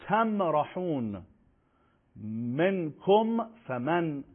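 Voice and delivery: «تمرحون» and «منکم فمن» slowly, each m clearly sounded; natural clear mim. Shown as a demonstration. Teacher demonstrating izhar to students, mim clear and ordinary. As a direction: articulate the m plainly, with no humming stretch.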